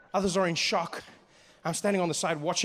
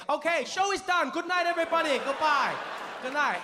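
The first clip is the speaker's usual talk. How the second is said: hurried goodbye; 7 semitones higher than usual. Retold or imitated. Charmer fleeing the stage.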